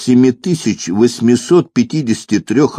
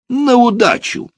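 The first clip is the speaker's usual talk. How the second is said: very high, wild call; drunken cry. A narrator's reading. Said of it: "крикнул пьяный".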